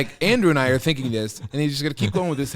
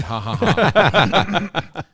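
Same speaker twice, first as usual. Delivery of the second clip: louder, higher retold ha-ha-ha; imitated laugh; 5 semitones higher, 6 dB louder, much slower than usual. Retelling a listener's cocky-friend joke, imitated laugh. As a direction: mimic the man's hearty laughing. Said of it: "He said".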